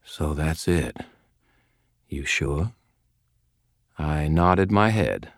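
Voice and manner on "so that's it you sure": soft, hushed realization; murmur. A narrator's reading. Ebenezer realizing the truth to Harry, murmured. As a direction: murmur it as it dawns on you. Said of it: "speaking in a murmur".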